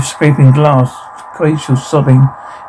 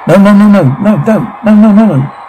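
panicked protest; 5 semitones higher than usual. Acted. Victim protesting to the attacker, panicked. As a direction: protest in alarm, pitch held high.

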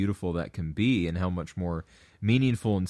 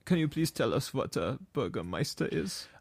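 mock host request; 3 semitones higher, 4 dB quieter than usual. Mock formal question.

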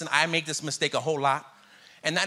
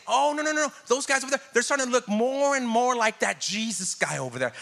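mock gossip; 5 semitones higher than usual. Voicing people's gossip.

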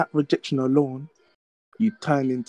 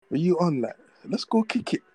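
eager invitation; 5 semitones higher than usual. Retold or imitated.

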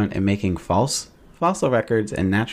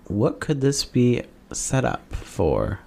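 dramatic conspiracy tease; slower than usual. Acted. Dramatic conspiracy reveal, music.

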